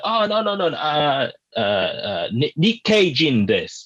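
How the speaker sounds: hammed-up broken speech claiming to be Nikkei Jin; fake bumbling foreigner. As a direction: play a flustered foreigner pretending. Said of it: "I'm like".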